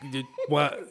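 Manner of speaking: low, muffled British grumble; British tough guy. Acted. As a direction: stumble through a low British rant. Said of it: "going right here, mate".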